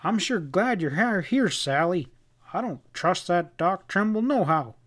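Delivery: hint of a rustic, distrustful husband; lightly played fretful cowboy; lightly voiced Sam-type cowhand.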